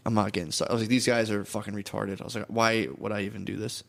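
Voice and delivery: thinking aloud, hushed; quiet inner voice. Retold or imitated. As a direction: say it to yourself, low and soft. Inner thoughts while driving.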